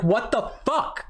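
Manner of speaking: half-mock incredulous retelling; retold disbelief. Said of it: "I'm like".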